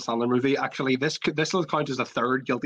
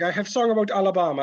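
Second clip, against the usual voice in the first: higher-pitched mock Jamaican accent; 4 semitones higher than usual. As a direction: imitate a Jamaican taxi driver's accent. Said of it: "playing a Jamaican taxi driver".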